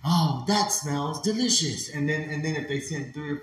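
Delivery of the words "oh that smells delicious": slow, savouring mock delight; NPC streamer. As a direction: draw it out like a live-stream act. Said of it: "And you go".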